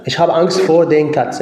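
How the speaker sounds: German sentence said slowly, word by word; teacher spelling out the sentence slowly for the class; slow model sentence. Shown as a demonstration. Teacher models the German sentence for students, slow and clear. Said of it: "داتيف، أيوه".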